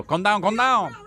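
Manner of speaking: high, lilting calm down; mock calming. Streamer echoing the plane passenger, mock soothing. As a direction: soothe like the man in the clip.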